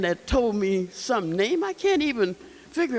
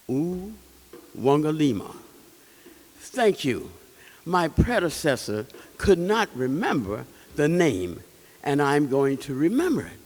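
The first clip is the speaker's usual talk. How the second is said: gentle king voice; 6 semitones lower than usual. Acted. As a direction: answer like a gentle old king. King tells the name again.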